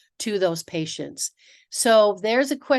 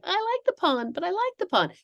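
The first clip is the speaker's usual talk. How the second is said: high, plaintive mock whine; whiny protest; 10 semitones higher, 3 dB quieter than usual. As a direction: play yourself pleading, pitched way up. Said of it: "And I was like".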